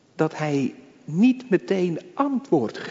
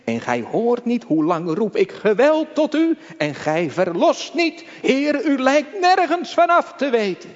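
lamenting cry; 6 semitones higher, 3 dB louder than usual. Retold or imitated. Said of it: "Hij spreekt het in hoofdstuk één uit".

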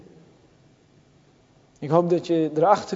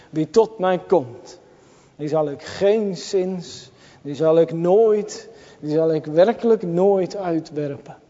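solemn promise. Retold or imitated. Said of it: "Vluchten tot Jezus die zegt".

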